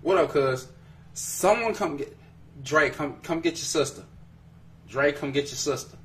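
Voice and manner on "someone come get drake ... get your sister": raised, playful calling out; mock-exasperated call. Host calling her brother to come get her, mock-exasperated. Calls on brother to fetch sister.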